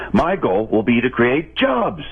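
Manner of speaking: slow campaign line that leans hard on "jobs"; slowed-down stump speech, punching "jobs" at the end; stress on jobs. Shown as a demonstration. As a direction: hit "jobs" like the big promise. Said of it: "See how I hit the word jobs?".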